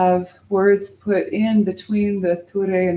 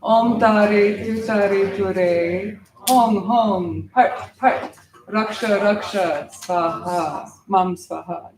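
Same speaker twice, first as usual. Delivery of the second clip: group mantra recitation; slower than usual. Shown as a demonstration. Teacher asking students to say it with me, slow mantra recitation. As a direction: lead the mantra steadily for others to follow. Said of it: "So say it with me".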